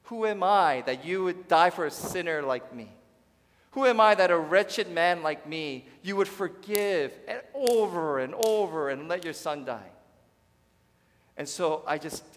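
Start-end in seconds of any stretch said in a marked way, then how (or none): 0.0-9.9 louder, rising, overwhelmed prayer; overwhelmed cry of gratitude. Retold or imitated. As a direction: cry it out in awe. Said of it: "That all I can do is".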